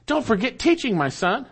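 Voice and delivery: "teaching" stressed high, falling away on "my son"; emphatic stress. Shown as a demonstration. Preacher restating the command for emphasis, "teaching" stressed. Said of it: "it is emphatic".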